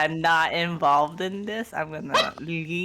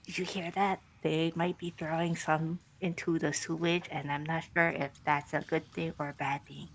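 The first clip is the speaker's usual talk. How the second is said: whisper; 7 dB quieter than usual. Acted. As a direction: murmur it like a secret warning through a tarp. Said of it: "I whisper".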